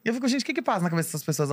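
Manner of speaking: fast, high exasperated rant. Real, not acted. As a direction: throw up your hands and rant. Ranting at voters, high and fast.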